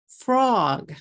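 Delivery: "frog" in one falling beat, f and r blended; English FROG, no vowels slipped in; one-syllable English. Shown as a demonstration. Teacher asking how many syllables you hear, one-syllable English. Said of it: "I'm saying one syllable".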